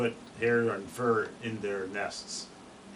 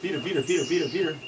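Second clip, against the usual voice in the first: titmouse call; 5 semitones higher, much faster than usual. Shown as a demonstration.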